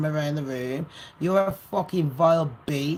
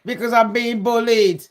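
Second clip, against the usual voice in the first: mocking imitation; 2 semitones higher, 4 dB louder than usual. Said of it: "he's put".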